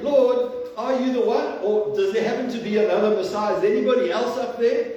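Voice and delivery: high, urgent acted questioning; doubting plea. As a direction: plead upward as a doubting prisoner. John's doubting plea, echoes the joke.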